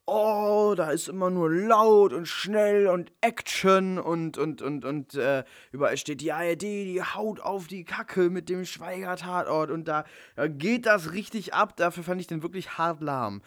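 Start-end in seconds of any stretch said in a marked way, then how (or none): 0.1-11.8 mocking complainer voice. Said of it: "viele beschweren darüber".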